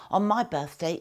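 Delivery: a loud, booming Marine calling across the ward. Retold or imitated. Marine in the opposite bed booms to the crying chap, loud. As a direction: boom it out over the ward. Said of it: "said in a really loud, booming voice".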